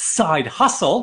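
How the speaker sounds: slow, stretched-out American accent.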